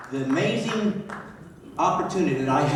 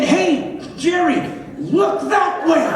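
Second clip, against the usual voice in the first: mock call-out; 11 semitones higher, slower than usual. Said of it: "I'm thinking".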